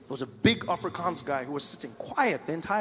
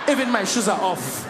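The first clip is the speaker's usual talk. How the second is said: repeated with a laugh in it, wiggling toes; playful South African passenger. Retold or imitated. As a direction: say it again while laughing. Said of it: "he did this with his toes".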